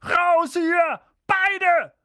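high, loud strained command; croaked order. A narrator's reading. Uncle sends both boys out, croaked order. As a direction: force out the order in short bursts. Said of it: "krächzte Onkel Vernon".

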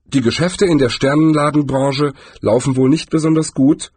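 politely put-on friendliness; trying to sound friendly. A narrator's reading. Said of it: "bemühte sich, besonders freundlich zu klingen".

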